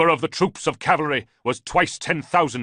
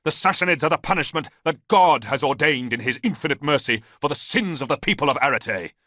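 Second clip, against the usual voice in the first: loud, high zealous preaching, slowing at the end; fervent declaration; 7 semitones higher, 7 dB louder than usual. A narrator's reading. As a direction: proclaim his reason with conviction. Priest answers Ballista fervently.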